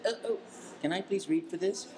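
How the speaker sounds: pleading. Retold or imitated. Begging producer for an audition.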